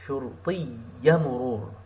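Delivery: شرطي مرور quick and joined. Shown as a demonstration. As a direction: rattle off شرطي مرور connected. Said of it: "Like you are connecting these words".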